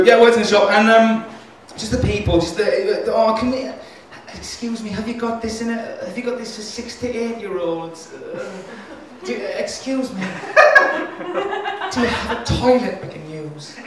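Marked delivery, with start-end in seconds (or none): 3.1-13.8 soft Geordie customer voice; mild Geordie accent, polite. Retold or imitated. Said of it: "I just like doing a Geordie accent".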